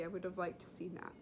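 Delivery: quick whisper aside. Real, not acted. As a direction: whisper it lightly.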